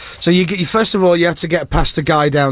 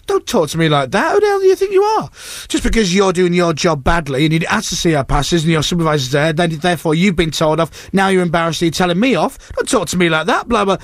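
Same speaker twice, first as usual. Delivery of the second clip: mildly heated retort; retold anger. Arguing back at the guard, mildly acted anger. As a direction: retell an indignant comeback, only lightly acted. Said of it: "And I'm really angry".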